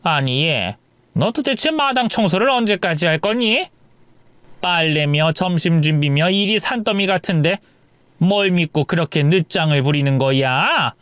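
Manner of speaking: lightly voiced nagging mother-in-law; scolding mother-in-law. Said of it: "호통을 치셨죠". (며느리를 호통치는 시어머니 말투)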